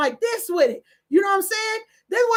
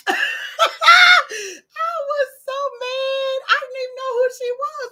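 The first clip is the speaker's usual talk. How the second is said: laughing while talking; 8 semitones higher, 5 dB louder, slower than usual. Real, not acted.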